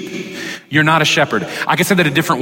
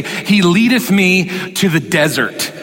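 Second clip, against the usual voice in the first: mock King James voice; slower than usual. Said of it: "He doesn't say".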